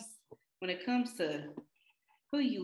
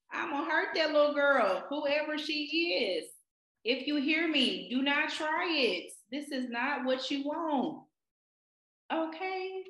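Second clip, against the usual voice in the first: mock warning; 2 semitones higher than usual. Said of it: "Excuse my violence".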